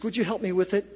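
ordinary talk

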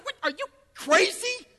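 high-pitched incredulous outburst; angry, offended. Retold or imitated. Preacher replaying his answer to a wedding request, angry. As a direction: retort in offended disbelief. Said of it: "I actually got angry".

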